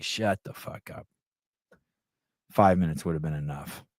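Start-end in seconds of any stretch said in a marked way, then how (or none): 0.0-1.1 whispered, half-joking shut-up; hushed mock snap. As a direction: whisper it like a teasing warning. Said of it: "I'm like".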